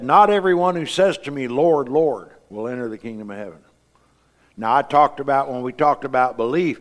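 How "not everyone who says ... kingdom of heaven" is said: preaching loud. Acted. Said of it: "he said".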